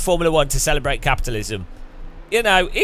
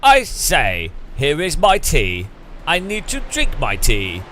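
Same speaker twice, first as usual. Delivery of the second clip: put-on English accent; slower than usual. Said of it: "what would the English one be".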